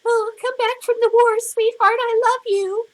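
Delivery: high falsetto doting housewife; squeaky lovestruck wife voice; mock sweet wife. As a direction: parody the swooning fifties sweetheart. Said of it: "They weren't these little".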